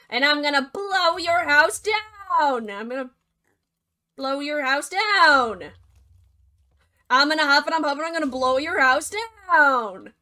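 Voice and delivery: loud, huffing, repeated threat; straining wolf yell. Acted. Wolf yells again and again at the brick house, loud and straining. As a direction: push harder and harder, getting desperate.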